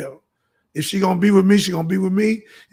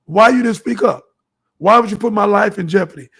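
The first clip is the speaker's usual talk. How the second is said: louder, pressing hard on why; demanding question; 4 dB louder than usual. Real, not acted. Boyfriend demands why the woman stayed silent, louder. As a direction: throw the question at her like an accusation.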